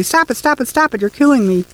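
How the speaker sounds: high, frantic shriek to be let go; shrieking hysterically. A narrator's reading. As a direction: scream for release, pitched high. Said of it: "She shrieked, terrifying and hysterically".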